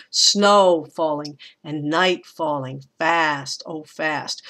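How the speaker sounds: slow scansion, hitting SNOW, NIGHT and FAST; stressed-unstressed. Shown as a demonstration. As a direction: stretch "Snow", "night", "fast" and drop off after each. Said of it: "it goes stressed, unstressed".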